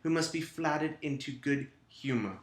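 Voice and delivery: hammed-up British reading voice; bad British accent. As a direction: read it in a badly faked British accent. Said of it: "my shitty British accent".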